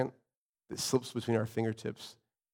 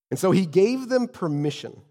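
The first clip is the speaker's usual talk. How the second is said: raised, emphatic Bible reading; scripture reading; 7 semitones higher, 6 dB louder than usual. A narrator's reading. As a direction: read God's word out to the congregation. Resumes reading the passage.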